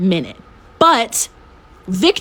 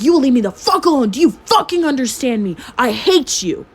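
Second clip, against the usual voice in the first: higher-pitched mock tirade, not full volume; retold screaming; 4 semitones higher than usual. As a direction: replay the angry outburst at the ex. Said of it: "I'm like, screaming at him".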